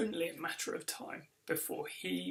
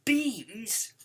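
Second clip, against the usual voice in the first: slow, higher, loud disbelieving shout; 7 semitones higher, 7 dB louder, much slower than usual. Acted. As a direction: stretch it out, loud and appalled. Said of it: "he shouts".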